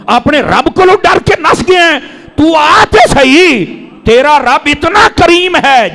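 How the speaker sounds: impassioned call. Retold or imitated. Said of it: "او فرمایا".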